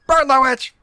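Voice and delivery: loud high mob shout; rally the crowd to burn her; angry mob leader. Acted. Acting out witch-burning crowd.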